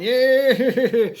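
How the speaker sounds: high, loud drawn-out "yeah"; mock battle holler breaking into a laugh; imitated gleeful yell. Storyteller mimicking Tam with his M sixty, gleeful mock yell. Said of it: "just going".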